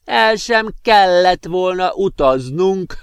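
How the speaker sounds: magasan, lassan, nevetéssel átszőve; önfeledten nevetve mondja; hahotázva. Acted. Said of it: "hahotázott önfeledten a professzor". (hahotázó öreg professzor)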